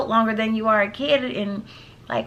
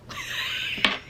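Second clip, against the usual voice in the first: laugh; 7 dB quieter than usual. Real, not acted. Laughing at own baby voice.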